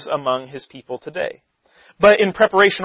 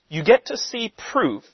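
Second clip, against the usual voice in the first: "proof" set apart and held at the end; stress on proof; 6 semitones higher than usual. Real, not acted. Teacher repeats the point after his aside, stress on "proof". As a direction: land firmly on "proof" as the key word. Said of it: "I emphasize that word".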